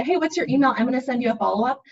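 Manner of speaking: bright, brisk confident offer; just offer it, sure of yourself. Shown as a demonstration. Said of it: "Just say".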